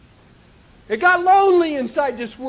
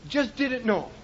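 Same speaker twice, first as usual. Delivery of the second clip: "Just didn't know" repeated much softer and lower, trailing off; soft echo; 5 semitones lower, 8 dB quieter than usual. Real, not acted. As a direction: let the repeat fall away to almost nothing. Repeated line, second softer.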